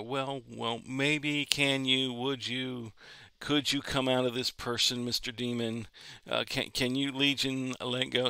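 a hint of a hesitant, timid asker; half-hearted, unsure pleading, lightly voiced; mock timid pleading. Preacher mocks a timid prayer to a demon, hesitant. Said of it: "didn't come against anything and go".

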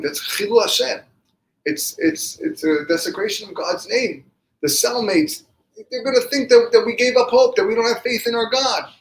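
high, loud scolding that keeps building; impassioned rebuke. Acted. Rav Elimelech scolding his crying brother, loud indignant rebuke. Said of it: "he turned to his brother and he rebuked him".

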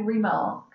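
"remark" with a light "re" and weightier "mark"; stress on MARK. Shown as a demonstration. Teacher explaining syllable emphasis to students, stress on MARK. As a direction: keep "re" weak in "remark", lean on "mark". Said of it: "we don't put the oomph in our voice on the re".

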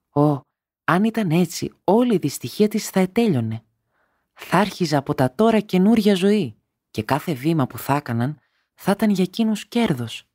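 a wife's thought lifting with joy; hopeful wife. A narrator's reading.

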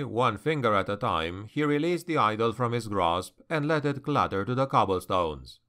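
plain reading voice

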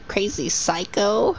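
teasing sing-song that climbs into a yell; mock taunting, rising to a shout. Taunting a game character.

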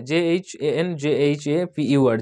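slow, letter-by-letter spelling; measured dictation of each letter. Shown as a demonstration. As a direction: spell the place name slowly, letter by letter. Spells out a place name.

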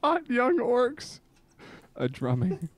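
slow, solemn recital with long pauses; earnest poetry reading, lingering between lines; dramatic poem reading. Acted. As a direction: read it like a heartfelt confession poem.

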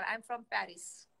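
drawn out very slowly, word by word; slow demo line. Shown as a demonstration. Teaching a friend how to introduce herself, very slow. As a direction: stretch each word of "I am from Paris". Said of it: "ऐसे बोला कर".

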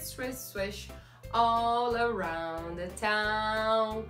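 ordinary talk, nothing marked

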